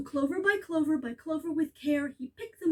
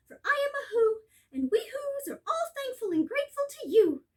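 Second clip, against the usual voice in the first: tiny grateful Who mayor; 8 semitones higher than usual. Acted. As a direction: speak up from a speck of dust.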